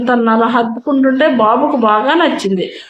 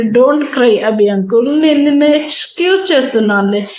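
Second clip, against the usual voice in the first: put-on consoling child; 3 semitones higher than usual. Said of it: "ముద్దు ముద్దు మాటలతో ఓదార్చాడు".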